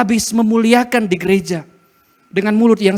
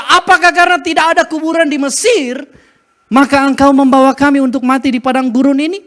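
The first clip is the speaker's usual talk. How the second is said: angry complaint; 5 semitones higher, 4 dB louder than usual. Acted. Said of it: "Langsung marah-marah".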